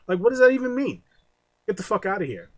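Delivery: loud, high disbelieving outburst; incredulous rant. Real, not acted. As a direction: fire off the question in outrage. Ranting about business divisions.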